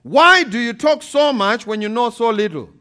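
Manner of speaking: amused, laughing through the words; God's rebuke read with a laugh. Acted. Preacher reads God's words to Job, laughing. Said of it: "This is what God said".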